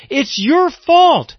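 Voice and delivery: a grieving sister's reproach, lightly voiced; Mary accusing Jesus. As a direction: blame him like a grieving sister. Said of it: "It's another way of saying".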